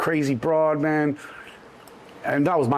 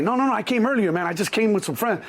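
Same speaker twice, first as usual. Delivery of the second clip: higher-pitched, insistent explanation; pleading excuse; 6 semitones higher than usual. Retold or imitated. Passenger explaining himself to shuttle driver, pleading. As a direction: talk your way in urgently.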